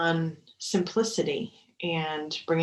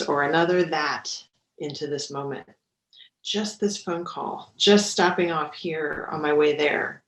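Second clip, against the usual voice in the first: measured mindfulness book reading; 6 dB louder than usual. Acted. Mindfulness teacher reads a favorite book to meditators, measured reading. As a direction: read the passage aloud with deliberate phrasing.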